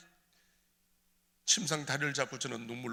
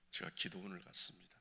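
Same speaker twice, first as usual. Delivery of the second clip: normal talking voice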